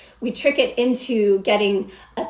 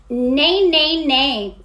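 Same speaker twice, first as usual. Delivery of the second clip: mock bratty neigh, a bit louder; 4 semitones higher, 4 dB louder, much slower than usual. Shown as a demonstration. Coach demonstrating speaking the neigh, lightly bratty. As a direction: whine the neighs like a spoiled kid. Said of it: "I would first just try a bratty neigh".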